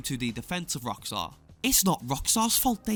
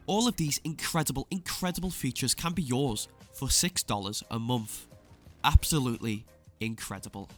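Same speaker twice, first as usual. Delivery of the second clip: smug sarcastic exposé. Acted. Sarcastic praise of bad deal.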